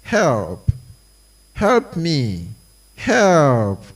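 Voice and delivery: a beaten man calling out, half-hearted; shouting in pain. Acted. Beaten, bloodied man calls for help: mild pained shouting. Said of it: "shouting in pain".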